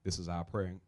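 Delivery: ordinary delivery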